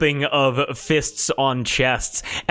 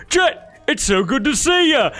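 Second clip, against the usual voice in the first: excited high voice; 12 semitones higher, 4 dB louder than usual. Acted. DM voicing Lurjo greeting.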